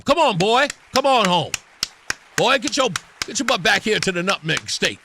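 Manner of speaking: put-on calling a boy home, folksy and insistent; lightly hammed-up scolding elder; mock summoning. Host orders senator back to his state, mock summoning.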